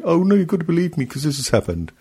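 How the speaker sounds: high, fast mocking whine; lightly hammed-up pleading voice; mock whiny plea. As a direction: take the piss out of his pleading.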